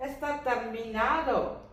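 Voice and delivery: Está terminado, drawn out slowly; slow model read. Shown as a demonstration. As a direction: lay out each syllable. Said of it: "അതിന്റെ അർത്ഥം". (പതുക്കെ നീട്ടി പറയുക)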